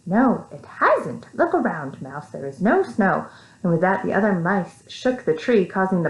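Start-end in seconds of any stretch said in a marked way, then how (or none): 0.1-3.2 slow, solemn reply. Acted. Tweez correcting the mouse, slow and solemn. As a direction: say it gravely and slowly. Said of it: "said solemnly".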